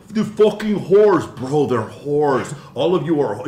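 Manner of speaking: mock yell, high and loud, slow on the first words; hammed-up crude insult; imitating a friend's rant. Retelling his friend insulting the women, a mock yell. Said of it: "he'll call them".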